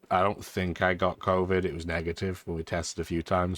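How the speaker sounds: stuffy nose from a cold; blocked nose. Real, not acted. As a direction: talk through a blocked nose. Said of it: "my voice is a little bit different sounding to normal".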